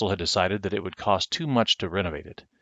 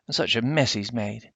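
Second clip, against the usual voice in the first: higher, fond fussing; doting country woman; 4 semitones higher than usual. Acted. Missus Owens fusses at the messy boy, higher. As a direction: scold the messy child fondly.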